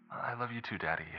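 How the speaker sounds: put-on high, soft child voice; little girl. Young daughter asking her father on the phone, high child voice. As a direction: sound small and eager, like a young girl.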